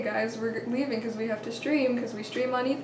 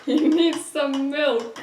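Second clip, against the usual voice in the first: slow, louder repeat through laughter; laughing echo; 3 semitones higher, 8 dB louder, much slower than usual. Real, not acted. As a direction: savor the joke, laughing.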